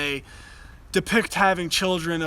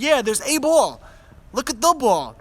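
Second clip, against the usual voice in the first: much higher, louder parentese; talking to a toddler; 7 semitones higher, 4 dB louder than usual. Retold or imitated. Father modelling ball for his son, high parentese. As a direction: model the word for a baby. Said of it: "and then I said".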